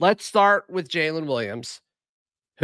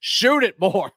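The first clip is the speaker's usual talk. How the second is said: laughing; 8 semitones higher than usual. Real, not acted. Laughing urge to shoot more.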